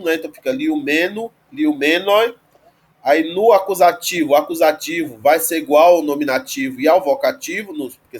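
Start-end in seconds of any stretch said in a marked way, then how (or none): 0.5-2.3 liumeno, liumenoi with the accent on me; stress on ME. Shown as a demonstration. Teacher showing neuter like masculine, liumeno stressed on me. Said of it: "vai ser igual ao masculino".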